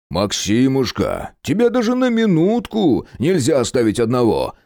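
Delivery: playful scolding of his buddy; mock growl from Gena. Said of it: "рычит Геныч".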